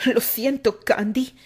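whispered sorry; whispered apology. A narrator's reading. Isaac whispers an apology to Candy before setting her shoulder. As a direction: murmur it to her.

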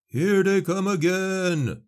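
high, loud, slow warning cry; shout. A narrator's reading. Lookout warning the defenders, high loud shout. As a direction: yell a battle warning across the walls. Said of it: "came a shout".

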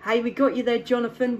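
usual speaking voice

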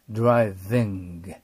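ドライビング with a lip-biting English V; careful English V. Shown as a demonstration. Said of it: "下唇を噛むVだから".

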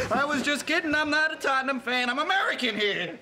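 put-on hasty American accent; bad American accent. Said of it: "worst American accent I've ever heard".

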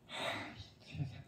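breathy whisper of amazement; whispered sigh. Real, not acted. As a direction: whisper it in disbelief. Marvelling at kids' skill.

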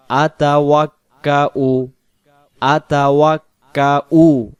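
syllable-by-syllable আতাওয়াক্কাউ with glottal "u"; hamza with pesh. Shown as a demonstration. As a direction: end আতাওয়াক্কাউ on a clear "u", no "wa". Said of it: "হামজার পেশটা উচ্চারণ হবে".

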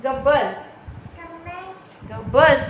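loud mock "shut up and sit"; bossy command demonstration. Shown as a demonstration. Mother prompting toddler to show how she bosses brother, loud mock command. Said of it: "दादाला कशी बोलते तू?".

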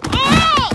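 high loud scream mid flip. Acted. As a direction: let out a shrill yelp. Doing backflip.

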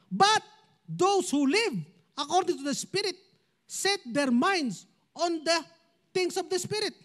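slow, deliberate Bible reading; scripture reading. Acted. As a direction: read the verse out measured and clear.

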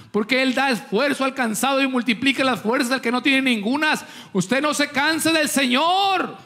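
preacher driving the point home; fervent preaching. Real, not acted. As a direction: urge the congregation, stretching key phrases.

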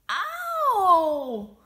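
high, loud cry of pain; loud hurt yell. Acted. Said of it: "yells Schubert".

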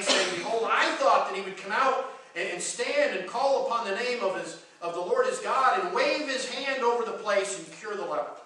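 steady read aloud from the Bible; measured scripture reading. Acted. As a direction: read the passage to the congregation. Reads scripture passage.

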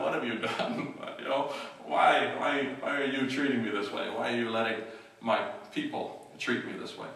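frustrated cry to God, half acted; mock hollering. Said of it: "he's hollering out to God".

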